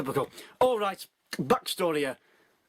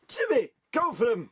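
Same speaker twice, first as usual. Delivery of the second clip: mock shout; 6 semitones higher than usual. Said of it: "shouted the one".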